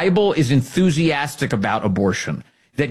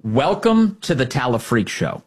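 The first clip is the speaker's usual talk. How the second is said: a hint of a carnival barker, slowed; slow mock announcer. Shown as a demonstration. Host pitching his ad, mock showman voice. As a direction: draw out the welcome like a showman. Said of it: "here's the Ken Paxton idea".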